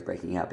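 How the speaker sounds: soft breaking up with a weak up; unstressed up. Shown as a demonstration. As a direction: stress on breaking, up tossed away. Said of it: "and you wouldn't stress the up part".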